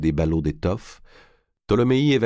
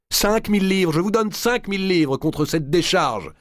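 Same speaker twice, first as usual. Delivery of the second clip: very high, loud, desperate bid; high-pitched, urgent haggling; frantic offer; 14 semitones higher, 3 dB louder than usual. A narrator's reading. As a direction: cry out the higher offer in panic. Archbishop frantically raises his offer.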